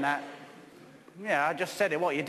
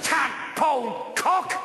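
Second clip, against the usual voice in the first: slow spat insult; 3 semitones higher, slower than usual. Acted. Insult in quarrel.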